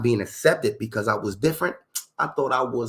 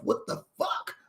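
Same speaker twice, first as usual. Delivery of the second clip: whisper; 7 dB quieter, slower than usual. Real, not acted. Aside after the rant.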